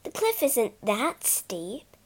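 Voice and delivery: reassuring. Acted. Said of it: "Bobby comforted her".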